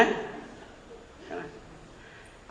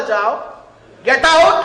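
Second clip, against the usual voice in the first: loud, higher shout; 3 semitones higher, 11 dB louder, slower than usual. Retold or imitated. Wife shouting at husband with a broom, loud. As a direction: yell him out the door. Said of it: "झाड़ू दिखाई".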